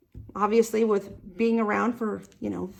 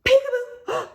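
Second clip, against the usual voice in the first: playful peekaboo; 13 semitones higher than usual. Acted. Peekaboo game with kids.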